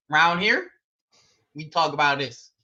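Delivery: playful Texas twang, rising on "here"; mock Texan voice; country accent. Shown as a demonstration. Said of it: "do my best country accent".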